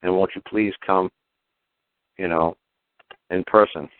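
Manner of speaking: mock Indian beggar boy. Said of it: "He's saying".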